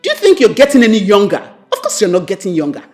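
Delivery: mother nagging her son about his age; fast loud nagging. Acted. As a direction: rattle off the rebuke.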